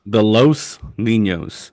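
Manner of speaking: slow, drawn-out Spanish Los Niños; Spanish pronunciation. Pretend. Host names his fan club.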